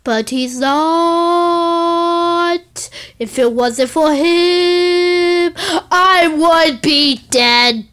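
mock-sincere, very slow; slow heartfelt speech. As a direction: draw out each phrase like a tragic plea.

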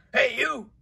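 calling out. Acted. Ladybug calls out to skunk.

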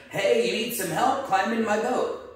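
high-pitched mock yell up to a roof; calling up. Boatman to man on flooded roof, calling up. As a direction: act out hailing someone from below. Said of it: "yells up at him".

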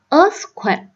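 "earthquake" slowly, stressed on EARTH; first-syllable stress. Shown as a demonstration. Teacher showing word stress to students, first-syllable stress. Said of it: "nhấn vào âm thứ nhất".

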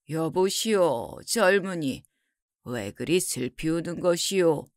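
low, measured scholar's voice; composed scholar. Acted.

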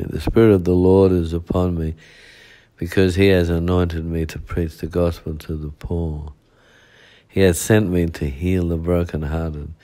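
measured preaching recitation of scripture; scripture reading. Acted. Preacher reading Luke four eighteen to the congregation, proclaiming. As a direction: proclaim the verse steadily.

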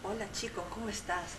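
soft sensual greeting. Acted. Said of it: "Ahora con una voz sensual". (voz sensual)

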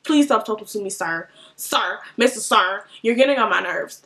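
low, unimpressed brush-off; stank attitude. Retold or imitated. Irritated rider telling the stranger to leave her alone, stank attitude. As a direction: dismiss him with cool irritation. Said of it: "give off a stank attitude".

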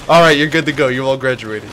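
teacher dismissing the medics, hammed-up; mock graduation call. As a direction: announce it like a proud teacher. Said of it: "they go".

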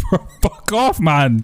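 laughing. Real, not acted. Laughs at teasing.

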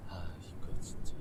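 annoyed whisper, slow and soft; exasperated whispered aside. Real, not acted. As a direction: breathe it out in irritation. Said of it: "annoyed whisper".

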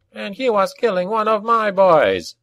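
high, heated goblin comeback; arguing goblin, pitched right up; goblin retort. A narrator's reading. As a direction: throw the accusation back in a high goblin voice. Goblin argues back at shaman.

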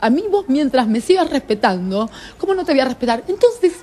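high, urgent retelling of a plea; retold pleading. To Marcelo, begging him to stay, high and urgent.

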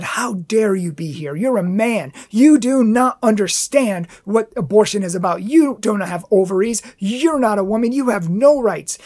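mild mock yell, rising in force; retold angry yelling. Lady confronting a man outside an abortion mill, retold angry yelling. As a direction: imitate an indignant confrontation, each accusation hammered. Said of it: "she started yelling in my face".

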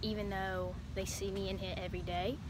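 casually put-on Australian accent. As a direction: keep up a shaky-quality Aussie accent. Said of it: "Everyone thinks I'm from Australia".

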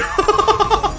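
high burst of shouting laughter; laughing out at a failed roll. Real, not acted. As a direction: let out a big shrieking laugh. Burst of laughter at bad luck.

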